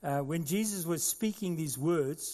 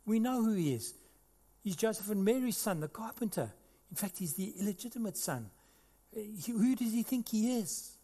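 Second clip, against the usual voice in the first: grumbling; 3 semitones higher than usual. Acted. Preacher voicing grumbling Jews about Jesus, scornful. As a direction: scoff under your breath. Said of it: "some of the Jews start grumbling and say".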